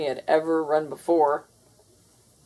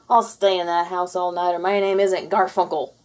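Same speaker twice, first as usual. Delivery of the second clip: bold boast; 5 dB louder than usual. Acted. Garfield boasting bravely.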